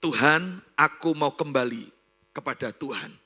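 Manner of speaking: loud cry out to God, easing at the end; emphatic repentant prayer. Retold or imitated. Repentant woman returns to God, loud emphatic prayer. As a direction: call out "Tuhan" strongly, then settle. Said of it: "dia berkata".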